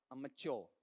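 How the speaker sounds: "अमच्योर" as short um-uh-CHO; modelled pronunciation. Shown as a demonstration. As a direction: say "अमच्योर" with a short first vowel. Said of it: "बताओ ये वाला part कौन सा?". ("अमच्योर", पहला अ छोटा)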